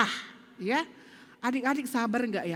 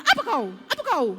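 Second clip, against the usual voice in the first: imitating a hot-tempered child, higher and louder; mock angry snap; 4 semitones higher, 3 dB louder than usual. Child snapping at little sibling, mock angry and louder. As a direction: act out a kid lashing out, a bit over the top. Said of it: "Langsung dia marah-marah".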